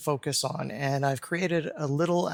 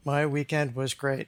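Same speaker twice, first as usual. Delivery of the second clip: deadpan, no lift at all; unexcited monotone statement; flat no emotion. Shown as a demonstration. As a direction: say it in one tone, no excitement. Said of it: "just saying things with one kind of tone".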